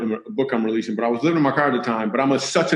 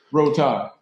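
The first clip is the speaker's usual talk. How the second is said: laughing mock sob. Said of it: "And she said".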